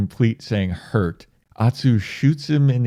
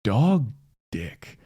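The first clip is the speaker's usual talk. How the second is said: mocking god; 3 semitones higher, slower than usual. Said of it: "God is even mocking him".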